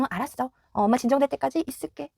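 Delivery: quiet, patient reassurance; soft calm reply. Shown as a demonstration. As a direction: stay gentle and unbothered. Parent calmly answering the child.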